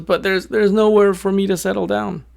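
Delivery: high, protesting bird voice; little bird. A narrator's reading. Little bird telling the wolf there's nowhere to settle, high-pitched protest. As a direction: object in a small high voice. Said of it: "And the little bird says".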